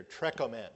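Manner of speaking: trekomen said as treck-o-men, stress on the first syllable; Greek word. Shown as a demonstration. Preacher teaching the Greek word to his congregation, careful pronunciation. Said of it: "from the Greek word that's used here".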